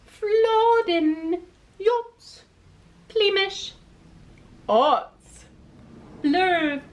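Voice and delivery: loud high nonsense calls; silly shouts. Acted. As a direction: shout out silly words happily. Birds shout silly words.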